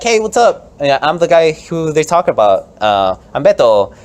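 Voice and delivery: high, loud, casual politician greeting; hammed-up candidate intro; Beto voice. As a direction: introduce yourself like a chummy candidate. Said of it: "It's like".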